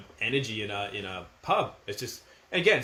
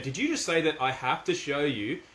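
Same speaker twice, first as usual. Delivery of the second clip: firm mock disbelief; 2 semitones higher than usual. Shown as a demonstration. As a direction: act stunned but stay firm. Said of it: "definitely being firm".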